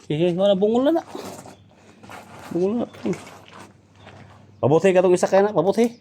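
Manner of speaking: loud, high shouts at a captive; shouted taunting. Acted. Captor goading his companions over the captive, loud high shouting. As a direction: shout it out, pitched well up.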